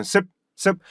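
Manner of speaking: 습 cut short on a closed p; clipped first sound. Shown as a demonstration. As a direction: say 습 as a short, stopped "seup". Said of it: "맨 처음에 소리는 습이에요". (입을 닫아 짧게 끊는 습)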